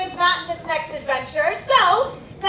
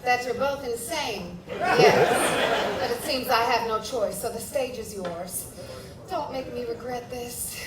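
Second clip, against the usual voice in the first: grave low voice; 7 semitones lower, 6 dB quieter than usual. Acted. Ominous guardian voice, low.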